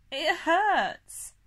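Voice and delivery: high, loud pained wail; loud, high-pitched cry of hurt; howl of pain. A narrator's reading. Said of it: "I howled".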